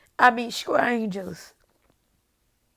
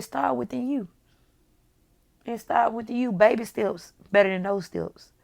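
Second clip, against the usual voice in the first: emotional; 6 dB quieter than usual. Real, not acted. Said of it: "I'm sorry that I got emotional".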